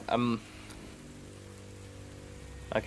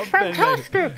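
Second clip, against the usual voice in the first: high crowd cheer. Acted.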